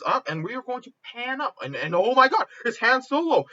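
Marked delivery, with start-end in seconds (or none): 1.9-3.5 raised, louder fan excitement; excited reveal. Acted. Fan pitching Han Solo's entrance, thrilled. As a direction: burst out with the big reveal.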